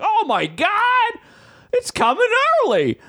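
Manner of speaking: playful high-pitched thrill at good news; mock excited squeal. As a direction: ham up a giddy falsetto. Retold joy at early delivery.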